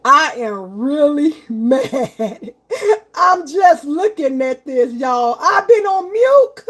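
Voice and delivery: laughing through mock exasperation; drawn-out words breaking into a laugh; real amused dismay. Real, not acted. Streamer realizing she's been on mute, laughing in dismay. Discovers she was muted, laughing.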